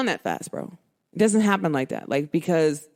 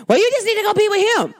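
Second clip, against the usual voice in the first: higher, quick, mocking retort; mock dismissive man; 11 semitones higher, faster than usual. Mocking the jealous suitor's retort, quick and higher. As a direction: parody his huffy brush-off.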